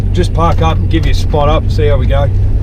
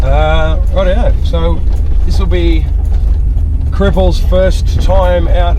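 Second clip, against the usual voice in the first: hoarse from tonsillitis; rough, sore-throat voice; 3 semitones higher than usual. Real, not acted. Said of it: "Excuse my voice, I'm still recovering from f***ing tonsillitis".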